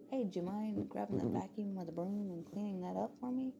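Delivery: acted upbeat, reasonable parent; polite parental request. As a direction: ask a child nicely for a favour. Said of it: "I'm just like".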